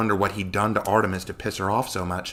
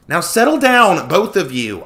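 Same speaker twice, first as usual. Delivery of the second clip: loud high call to stop them; crying out; 9 semitones higher, 10 dB louder, slower than usual. Acted. Rebecca crying out between arguing Joshua and Connor. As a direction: break up the fight. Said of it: "I cried".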